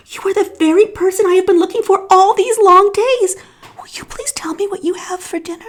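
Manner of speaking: high, eager little voice; breathless with eagerness; excited young elephant, dropping to a whisper; eager elephant's child. A narrator's reading.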